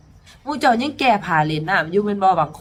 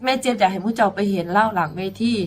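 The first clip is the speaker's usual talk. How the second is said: ordinary talk, nothing marked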